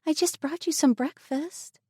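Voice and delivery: put-on a young woman gently reassuring her friend; compassionate. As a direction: soothe a frightened girl. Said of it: "she said compassionately".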